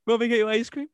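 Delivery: cooing mom voice; doting mom voice. Retold or imitated. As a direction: ask like a mom spoiling a kid.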